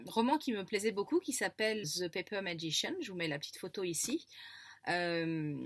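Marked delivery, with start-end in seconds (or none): 1.8-2.9 English accent. Real, not acted. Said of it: "j'ai un accent anglais quand même pourri".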